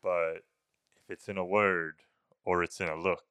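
a hint of the Babadook creeping in the dark. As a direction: intone it like the creature from the book. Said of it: "me doing the voice from time to time".

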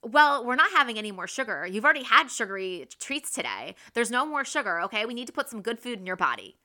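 put-on fast nagging lecture to the kids; negative. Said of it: "But it's so negative".

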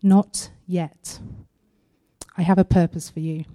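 soft, unhurried reply with pauses; gentle but firm. Retold or imitated. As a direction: answer quietly, leaving no doubt. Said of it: "this gentle but firm answer in response".

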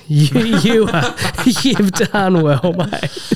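mock praise. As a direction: drag it out like a patronising pat on the back.

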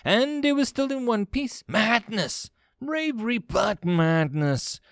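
high-pitched, appalled exclamation; horrified disbelief. Acted. Commander appalled by aluminium space station, horrified. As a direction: cry out aghast, drawing out the last phrase.

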